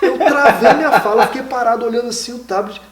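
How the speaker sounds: a laugh that is close to tears. Real, not acted. To the host, laughing as he recalls freezing up.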